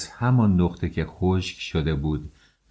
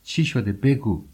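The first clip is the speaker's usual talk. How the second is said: frightened asking; 3 semitones higher than usual. Acted. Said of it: "وحشت زده نشستم".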